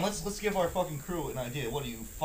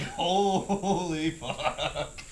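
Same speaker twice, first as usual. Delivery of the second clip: very drawn-out, laughing exclamation; slow amazed curse, laughing; laughing disbelief; much slower than usual. Retold or imitated. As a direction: stretch the first word out through laughter. Laughing at the instructor's punchline.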